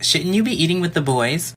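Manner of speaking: a hint of a condescending teacher; mock teacher jab. Teacher mocking a boy at lunch, lightly snide. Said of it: "she's like".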